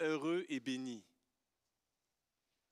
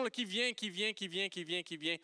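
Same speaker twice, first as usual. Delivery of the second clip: mock emotional surge; 2 semitones higher than usual. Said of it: "j'ai une montée d'émotions".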